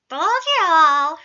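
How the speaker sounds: slow, loud, gloating yell; satisfied shout. A narrator's reading. Remus gloats at the whole group, shouting. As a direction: crow it at everyone. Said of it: "Remus shouted, satisfied".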